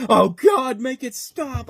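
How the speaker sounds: high-pitched imitated scream fading to a whimper; mock scream. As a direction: cry out like he's being tortured. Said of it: "you just hear Steve Zahn just screaming".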